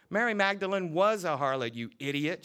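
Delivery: teacher crying out in fury at the reverend; furious cry. Acted. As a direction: fling it at him. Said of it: "she cried".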